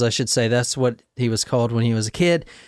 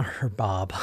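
much lower and softer, mocking; low mocking murmur; 7 semitones lower, 9 dB quieter than usual. Shown as a demonstration. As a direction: drop it low and soft, teasing.

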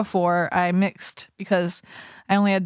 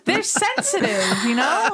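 high, giggly protest; laughing; 8 semitones higher than usual. Real, not acted. Co-host defends nipples to friends, laughing. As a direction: squeeze it out through real laughter.

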